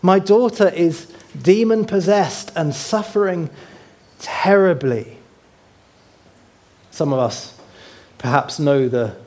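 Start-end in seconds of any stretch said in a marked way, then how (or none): 0.0-5.2 pleading cry. Acted. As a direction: beg for help, mildly dramatized. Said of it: "came to him crying out".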